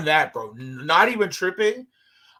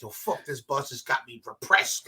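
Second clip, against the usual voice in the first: low, mock-poetic grumble; poetic moping; 4 semitones lower, 3 dB quieter than usual. Teen listening to a rapper, sick of the bus, poetic moping. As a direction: drag out the end like a moody poet. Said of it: "I'm getting all poetic with it".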